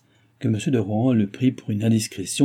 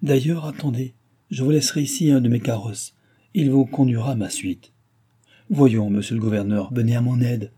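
lightly acted royal lady brushing away doubts; a hint of a lively dauphine; gracious imperious dauphine.

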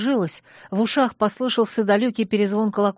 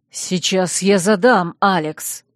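slow, louder angry threat; 5 dB louder, slower than usual. Acted. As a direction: storm after her, threatening. Duke storming out angrily.

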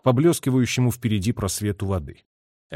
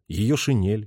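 ordinary delivery, nothing marked

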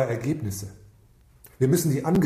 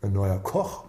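mock naive voice; 4 semitones lower, much slower than usual. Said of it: "Dann denken sie bestimmt".

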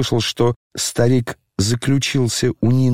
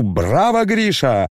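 shout; 4 semitones higher, slower than usual. Acted. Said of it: "Я кричу".

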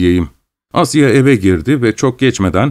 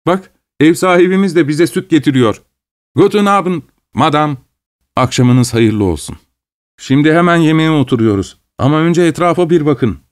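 higher-pitched, lightly voiced eager host; hospitable Gagin; 5 semitones higher than usual. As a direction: welcome everyone with a lifted voice. Gagin greets landlady, hosts guest. (hafifçe tizleşen, konuksever ev sahibi sesi)

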